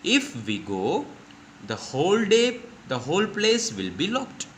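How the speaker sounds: put-on high, slow worried child; Nina worrying. Shown as a demonstration. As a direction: plead it like an anxious little girl. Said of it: "अब नीना बता रही है".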